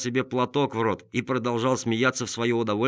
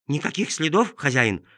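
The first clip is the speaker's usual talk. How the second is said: impatient; 5 semitones higher, 3 dB louder than usual. Acted. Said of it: "с нетерпением спросила собака".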